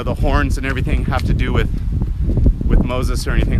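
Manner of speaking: winded, puffing from the climb; out of breath. Real, not acted. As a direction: talk while catching your breath. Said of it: "I just walked up this damn hill and I'm tired".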